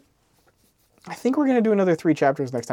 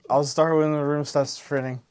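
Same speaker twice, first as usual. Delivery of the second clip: mock drunk; slower than usual. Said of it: "so drunk right now".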